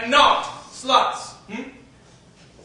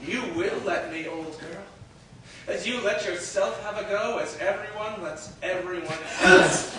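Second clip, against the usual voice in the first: lower, much softer menace; cold menace; 5 semitones lower, 5 dB quieter than usual. Acted. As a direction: purr the threat.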